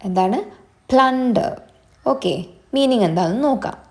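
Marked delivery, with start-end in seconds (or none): 0.9-1.5 "പ്ലണ്ടർ" raised in pitch, falling at the end; crisp teaching take of "പ്ലണ്ടർ", starting high; pronunciation demo. Shown as a demonstration. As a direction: model "പ്ലണ്ടർ" clearly for learners. Teacher models a new word.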